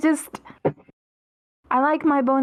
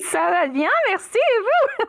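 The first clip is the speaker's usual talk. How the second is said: French reply; 10 semitones higher than usual. Pretend. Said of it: "Do you have a French accent?".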